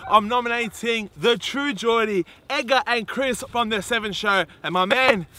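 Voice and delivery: in ice cold water. Real, not acted. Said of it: "it's so cold".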